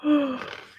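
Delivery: surprised gasp; sharp gasp. Real, not acted. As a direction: gasp of recognition. Spots remembered book in comments.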